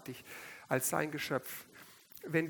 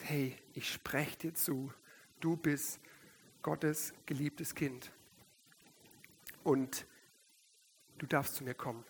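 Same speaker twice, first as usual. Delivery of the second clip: tender voice of God; 5 dB quieter than usual. Acted. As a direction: speak it like a loving invitation. Preacher voices God's invitation.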